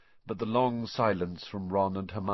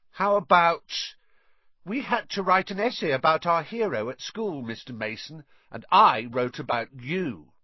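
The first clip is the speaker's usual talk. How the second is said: Dudley voice; 8 semitones higher, 5 dB louder than usual. A narrator's reading. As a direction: show off to the guests. Dudley rehearsing a speech.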